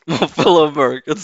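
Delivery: quick mock presidential address, laughing; Obama. Guest jokingly mimics Obama's speech opener. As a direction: ham up a stately speech opener. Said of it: "Sorry, Obama".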